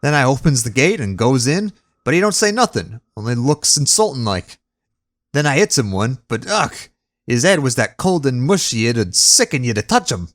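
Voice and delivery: chatty servant voice, a touch rough; Cockney bellboy. Acted. Thomas tells the fight.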